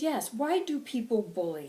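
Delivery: impassioned channelled preacher; angry, passionate. Acted. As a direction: demand an answer with heated conviction. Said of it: "I'm very angry and I'm very passionate".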